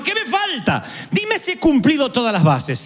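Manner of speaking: high, amused question through a laugh; mock-innocent rich man laughing. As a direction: ask it with a chuckle.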